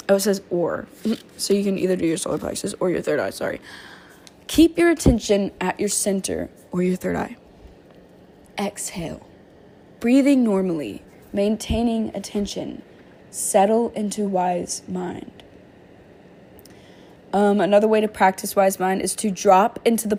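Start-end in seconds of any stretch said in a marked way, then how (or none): 4.5-15.4 guided meditation. Acted. To her viewers, guiding them in a calm meditation. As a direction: ease listeners down into stillness.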